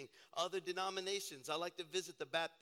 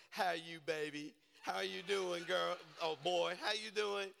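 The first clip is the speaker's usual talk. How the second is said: mock warm church lady. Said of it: "she's like".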